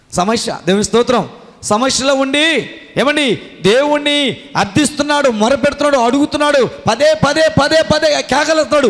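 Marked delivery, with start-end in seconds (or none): 1.6-8.9 high, urgent sermon climax; fiery preaching. Acted. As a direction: preach it out, pleading and rising. Preacher at full force.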